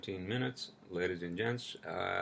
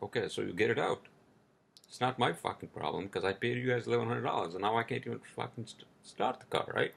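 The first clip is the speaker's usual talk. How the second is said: retold angry rant; 4 semitones higher, 3 dB louder than usual. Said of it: "I was so pissed".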